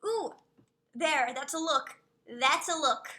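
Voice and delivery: yelling with delight at the screen; excited yelling. Real, not acted. To stream chat about a dragon skin, excited yelling. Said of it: "Sorry if I'm yelling".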